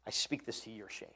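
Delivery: softly spoken, almost to himself; quiet, convicted repetition; hushed repeat. Shown as a demonstration. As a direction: let the verse drop down low and quiet. Repeats verse line quietly.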